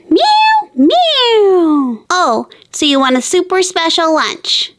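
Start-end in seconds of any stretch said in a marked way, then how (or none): 0.1-2.0 very high little meows; kitten meowing. Acted. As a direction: squeak it like a tiny kitten. Cat answers the girl.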